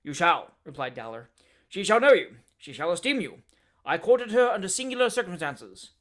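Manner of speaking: a hot-tempered man working himself up to a shout; fierce Dowler tirade. Acted. Dowler's blustering story.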